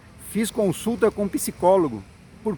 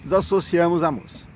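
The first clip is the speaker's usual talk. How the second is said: ordinary delivery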